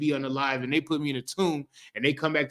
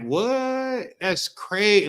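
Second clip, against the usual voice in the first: amazed; 6 semitones higher, much slower than usual. Retold or imitated. Disciples react to risen Christ.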